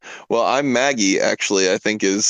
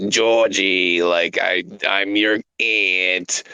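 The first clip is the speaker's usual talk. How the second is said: stern aunt voice; 3 semitones lower, much slower than usual. Shown as a demonstration. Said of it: "a high nasally voice".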